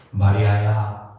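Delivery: low, slow, tender calling of a name; tenderly drawn-out, low-pitched call; very warm call. Acted. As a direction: call to her gently and slowly. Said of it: "너무나 따뜻하게 부릅니다".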